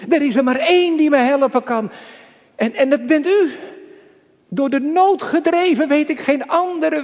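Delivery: urgent pulpit fervour; fervent preaching. Acted. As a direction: build the appeal to a pleading climax. Preaching climax.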